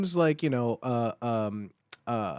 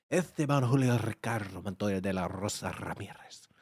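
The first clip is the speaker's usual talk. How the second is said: whispered sexy name; 9 semitones lower, 7 dB quieter than usual. Shown as a demonstration. Savoring the sexy name, whispered in Spanish. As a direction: breathe the long name like a secret. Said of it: "that's a sexy name".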